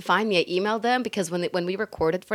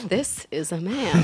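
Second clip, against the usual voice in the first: man voice; slower than usual. Shown as a demonstration. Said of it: "That's hilarious".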